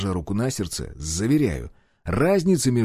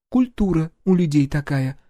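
shrugging wife; 6 semitones higher than usual. A narrator's reading. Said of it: "пожала плечами супруга".

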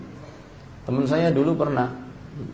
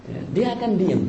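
ordinary delivery

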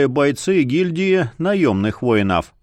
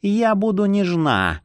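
smiling purr; 5 semitones higher than usual. Acted. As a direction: promise tenderness with a smile. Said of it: "улыбнулась Люсенька".

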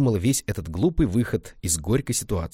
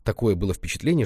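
ordinary delivery

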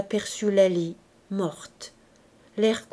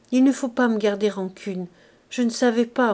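urgent, louder begging; passionate pleading; 4 dB louder than usual. Acted. Gervaise begs old Bazouge, desperate pleading. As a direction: plead desperately to be taken away. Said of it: "se mit à le supplier avec passion".

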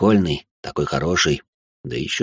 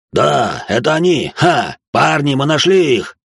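higher and louder triumphant call; excited shout; 6 semitones higher, 3 dB louder, slower than usual. Acted. Hunter shouting to his men that he found the pups. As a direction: call the others with glee. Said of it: "крикнул он".

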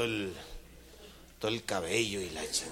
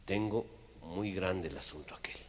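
whisper; 4 semitones lower, 6 dB quieter than usual. Acted. Confesión susurrada.

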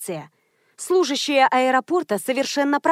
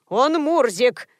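«Он» stressed, slow and stubborn; much slower than usual. A narrator's reading. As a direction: dig in on «Он», slowly. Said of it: "упёрлась Терешина". (упрямо, с ударением на «Он»)

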